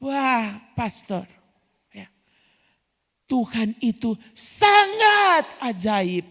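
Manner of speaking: slow, drawn-out wonder in a lightly voiced woman; hospital patient praising God in slow awe; awed sick woman. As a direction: marvel slowly at God's goodness. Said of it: "Kata pertama yang keluar dari mulut ibu itu apa?".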